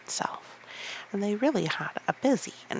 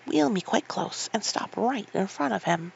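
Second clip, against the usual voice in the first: commanding; 4 semitones higher than usual. Acted. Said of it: "he commanded".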